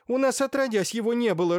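high, loud, flustered cackle of protest; indignant clucking. A narrator's reading. Irina protests there was never opium at home, indignant clucking. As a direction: cluck it out like an upset hen. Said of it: "раскудахталась Ирина Лукинишна".

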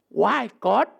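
preacher voicing a complaint at God; complaining question. Shown as a demonstration. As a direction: mildly demand an answer from God. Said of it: "Tak pantas kau bertanya".

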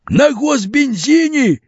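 high, slow indignant cry; high drawn-out indignant exclaim; outraged exclaim. A narrator's reading. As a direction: shout it in outrage. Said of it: "вскричал Тараканов".

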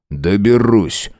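ordinary delivery, nothing marked

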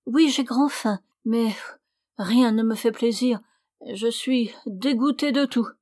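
voix plus haute, plaintive et jouée; fausse malade suppliante. Acted. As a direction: supplier en feignant la migraine. (la suivante cachée supplie le seigneur de ne pas ouvrir)

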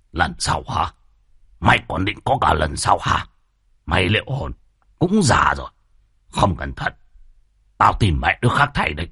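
a hint of a menacing landlord; threatening chief. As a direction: threaten the old servant coldly.

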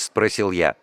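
ordinary delivery, nothing marked

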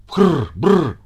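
spitting feline snort and growl; cat's frr brr cry. Acted. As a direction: snarl back at the dogs. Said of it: "крикнул Пётр Тимофеевич". (кот фыркает на собак в бочке)

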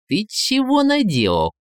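high-pitched, tense scolding; hissed reproach. A narrator's reading. Ivan finds the tsar in the cellar, hissing at Koschei. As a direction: scold him in an alarmed hiss. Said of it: "зашипел Иван".

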